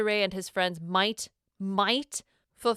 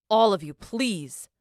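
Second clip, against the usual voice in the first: firm, exasperated appeal to a squabbling group; admonishing; 4 dB louder than usual. A narrator's reading. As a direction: admonish them all, a little louder. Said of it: "Ettore admonishes them".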